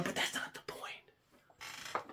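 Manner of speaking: very soft, slow whisper; muttered aside. Real, not acted. Speaker waving off his own correction, whispered aside. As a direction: drop to a whisper, brushing it aside.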